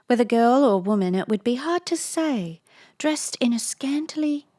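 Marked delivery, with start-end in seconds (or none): 3.0-4.5 misread word. Real, not acted. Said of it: "in a scanty".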